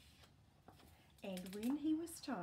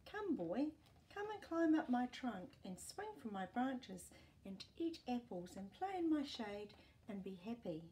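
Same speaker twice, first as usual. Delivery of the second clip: tree; 4 semitones higher, 5 dB louder than usual. Acted. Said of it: "and the tree said to the boy".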